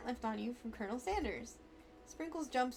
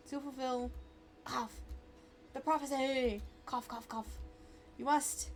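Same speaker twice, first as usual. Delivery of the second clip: overacted death scene. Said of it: "spice stuck in my throat".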